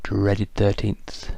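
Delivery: slow, lightly hammed-up ominous naming; a hint of drawn-out mock dread. Shown as a demonstration. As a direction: intone it slowly, as if naming a feared curse. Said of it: "in that tone of voice".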